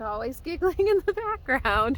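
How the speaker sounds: laughing through the words. Real, not acted. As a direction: giggle while saying it. Repeats line, laughing this time.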